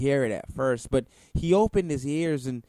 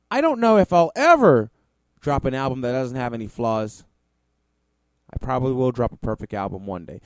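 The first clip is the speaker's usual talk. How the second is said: mocking quote; 7 dB louder, faster than usual. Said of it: "He says".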